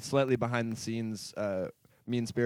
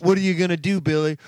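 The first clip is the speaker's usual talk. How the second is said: loud movie villain quote; 2 semitones higher, 6 dB louder than usual. Retold or imitated. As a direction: bark it like an action-movie villain. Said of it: "supercut of".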